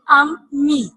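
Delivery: अम्मी, मीम pressed twice; stress on doubled m. Shown as a demonstration. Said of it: "मीम को जोर दे के पढ़ा".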